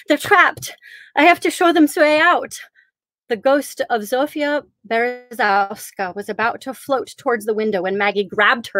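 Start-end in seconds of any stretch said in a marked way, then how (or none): 0.1-2.6 put-on Polish accent. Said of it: "exclaiming in a thick Polish accent".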